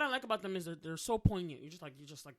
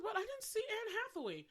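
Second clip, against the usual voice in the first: laughing; 12 semitones higher than usual. Retold or imitated. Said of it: "and I was like".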